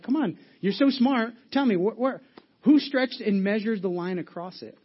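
God mocking Job's wisdom; sarcastic taunt. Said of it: "a little sarcasm".

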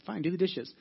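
imitating a grudging wife, slightly testy; lightly miffed, retold; mildly mean retort. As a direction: give a mock curt, fed-up order. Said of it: "probably be mean at it".

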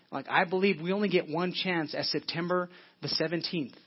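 ordinary talk, nothing marked

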